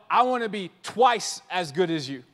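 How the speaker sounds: a hint of a cocky star; imitating LeBron. LeBron boasting about being twice as good, lightly voiced. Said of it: "LeBron going like".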